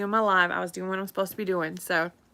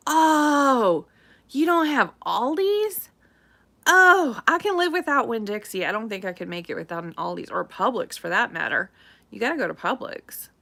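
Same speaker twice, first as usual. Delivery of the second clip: lightly voiced husband, a touch incredulous; a hint of her husband, disbelieving; quoting husband. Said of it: "so he said".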